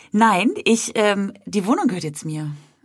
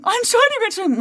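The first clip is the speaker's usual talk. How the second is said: much higher hurried apology; mock apology; much faster than usual. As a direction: gush a squeaky sorry. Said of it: "anstatt zu sagen". (hoch gequietschte Entschuldigung)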